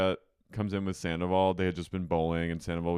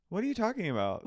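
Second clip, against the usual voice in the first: very high little voice; imitating feigned innocence; 12 semitones higher, faster than usual. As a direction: squeak it out as if caught. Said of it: "She goes like this".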